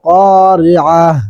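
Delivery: drawn-out Quranic recitation; slow recitation. Shown as a demonstration. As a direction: stretch the madd slowly, recite. Reciting the verse. (ধীর তিলাওয়াত)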